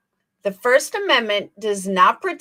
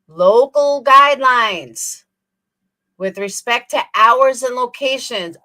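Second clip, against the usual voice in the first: slow and emphatic; 4 dB louder, slower than usual. Shown as a demonstration. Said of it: "Do you know what that means, Betty".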